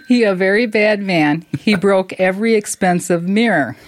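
a mock Chinese restaurant owner's broken English; lightly hammed-up Chinese accent; bad Chinese accent. Podcaster quoting a restaurant owner in a mock Chinese accent. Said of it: "That's the worst accent I've ever heard".

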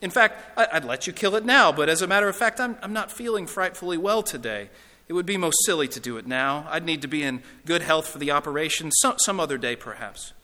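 hesitant, stammering excuses; a hint of a flustered, evasive ghost; lightly voiced reluctant ghost. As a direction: stall politely with nervous excuses.

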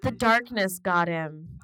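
ominous quote. Retold or imitated. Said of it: "she says".

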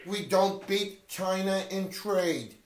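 slow, lightly voiced Trump copy; a hint of Trump, drawn out; Trump impression. Friend copies Trump soundbite, slow mild impression. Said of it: "let's do Trump".

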